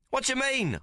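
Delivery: high yelling protest; yells. Acted. Dragged off by two card players, he yells in protest. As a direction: yell it out, dragged away and wronged. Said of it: "I yells".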